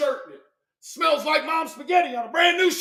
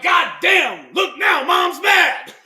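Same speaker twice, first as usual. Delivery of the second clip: mock sister; 5 semitones higher, 7 dB louder, much slower than usual. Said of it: "would have been like".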